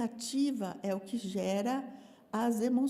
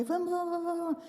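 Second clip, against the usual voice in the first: higher, pressing hurry-up urging; hurrying parents; 7 semitones higher, faster than usual. Retold or imitated. Parents hurrying a calm child, higher impatient urging. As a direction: rush the child along.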